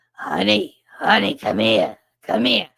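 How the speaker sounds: put-on loud, fond call to the kid; nurse Pat calling. Nurse Pat calling the hurt kid in, loud and fond. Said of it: "my mother has a different kind of voice".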